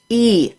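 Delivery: "e" said as the "ee" in "eat"; "e" as a clear long ee vowel; vowel demonstration. Shown as a demonstration. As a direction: say "e" as an isolated ee sound. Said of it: "for vowels such as".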